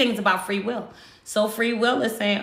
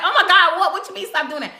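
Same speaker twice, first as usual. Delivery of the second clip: laughing disbelief; 8 semitones higher, 3 dB louder, faster than usual. Retold or imitated. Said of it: "And I was like".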